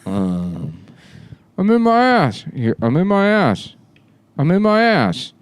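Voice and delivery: high voice drenched in reverb; echo chamber voice. Acted. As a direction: talk high into a cavern echo. High echoed.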